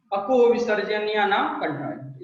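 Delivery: recitation drill. Shown as a demonstration. Teacher models the sutra for children to repeat, recitation drill. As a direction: recite the sutra in a measured lilt. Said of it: "इसको दो तीन बार उच्चारित करेंगे".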